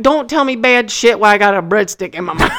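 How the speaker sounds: mock shout. Mock alarm over breadstick.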